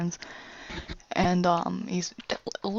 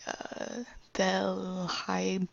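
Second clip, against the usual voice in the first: whispering; 7 dB quieter, much slower than usual. Retold or imitated. Father keeps chanting the warning.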